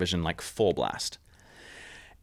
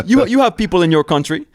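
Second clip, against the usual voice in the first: higher, louder, put-on voice of a suspicious governor; hostile governor; 9 semitones higher, 8 dB louder than usual. Governor demanding why the tourists came, imitated in a high, loud put-on voice. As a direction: confront the intruders in your jungle. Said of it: "It's like".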